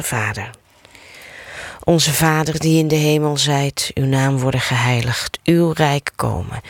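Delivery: measured, rhythmic prayer recitation; rosary prayer. Acted. Leader reciting the rosary with listeners, steady prayer cadence. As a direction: recite the Hail Mary as a familiar chant. Announces mystery, prays Our Father.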